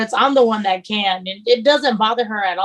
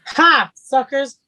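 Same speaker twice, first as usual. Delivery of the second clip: gloating; 3 semitones higher, 3 dB louder than usual. Pretend. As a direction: savour it like a playful taunt. Gloats after hosts tease her.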